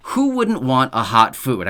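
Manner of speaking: slow, mildly sarcastic rhetorical question; lightly mocking, as if the answer were obvious; a little sarcastic. Real, not acted. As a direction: draw it out with a touch of sarcasm. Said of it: "I'm being sarcastic a little bit".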